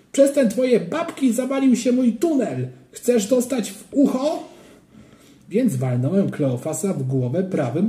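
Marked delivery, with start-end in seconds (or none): 0.1-4.5 put-on high, threatening kid's voice; angry child. A narrator's reading. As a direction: threaten him like an angry boy. (groźny, dziecięcy ton)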